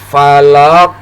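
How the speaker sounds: FALAQ with the final q stopped, then bounced; bounced final qaf. Shown as a demonstration. Teacher modelling falaq for learners to repeat, bounced ending. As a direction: say falaq, stop the q and let it rebound. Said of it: "lalu dipantulkan".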